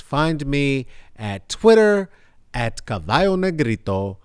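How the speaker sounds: usual speaking voice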